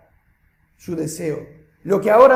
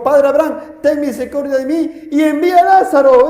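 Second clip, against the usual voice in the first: mildly raised preacher's cry; crying out, retold; 3 dB louder than usual. Preacher quotes the rich man's plea to Abraham, calling out. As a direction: quote the plea with some force. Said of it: "dando voces, dijo".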